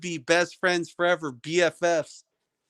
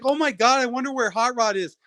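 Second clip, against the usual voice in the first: higher-pitched mock wondering; mock longing; 6 semitones higher than usual. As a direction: sarcastically pretend to pine for someone. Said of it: "It's like".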